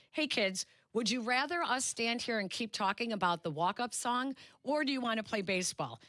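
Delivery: put-on upbeat call to kids. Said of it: "he turns to the kids and he goes".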